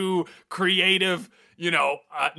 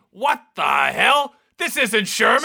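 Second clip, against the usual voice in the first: shocked; 4 semitones higher, 4 dB louder than usual. Acted. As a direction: react like you've been fooled. Discovers the kettle trick.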